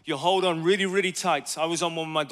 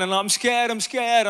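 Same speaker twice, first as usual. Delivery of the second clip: high, louder imitation of a scared child; retold tearful fear; 7 semitones higher, 5 dB louder, slower than usual. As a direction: plead like a frightened daughter, lightly acted. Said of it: "like, kinda crying".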